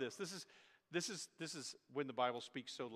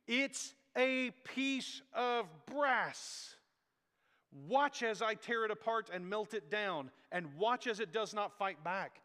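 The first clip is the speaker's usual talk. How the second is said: higher, louder scolding, dragging out piece of brass slowly; Hezekiah scolding idol worshippers; 5 semitones higher, 5 dB louder, slower than usual. Retold or imitated. Hezekiah mocking the people who worship the bronze serpent, loud and scornful. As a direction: thunder it at the crowd like a reforming king. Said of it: "He's like".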